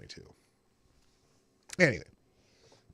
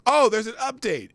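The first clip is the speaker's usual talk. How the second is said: surprised; 11 semitones higher, 8 dB louder than usual. Real, not acted. Sudden surprise, +11 semitones.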